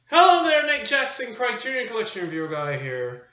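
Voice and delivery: high, loud opening greeting easing down; show-host intro. Pretend. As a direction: kick off the show with a big hello. Host's opening greeting to viewers.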